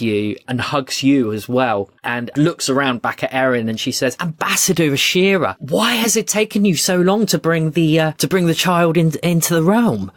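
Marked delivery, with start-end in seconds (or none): 4.2-10.1 higher, animated royal voice; effusive queen. Acted. Queen asking the ambassador about the long delay, effusive. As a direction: chide warmly in an excited, lifted voice.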